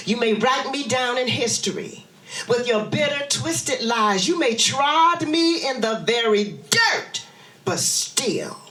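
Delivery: dramatic poem reading; poetry recitation. Acted. Recites Maya Angelou poem.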